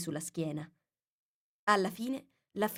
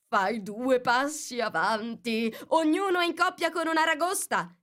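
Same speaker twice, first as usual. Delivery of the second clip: high, raised instructor's cry; Gryphon shouting; 7 semitones higher, 4 dB louder than usual. A narrator's reading. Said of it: "gridò il grifone". (grido del grifone, sempre più acuto)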